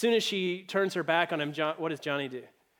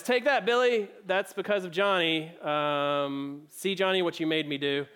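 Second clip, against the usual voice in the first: hammed-up spiteful punishment; angry mom; 4 dB louder than usual. Mom pouring lemonade on Billy while blaming Johnny, acted anger. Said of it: "Mom's mad".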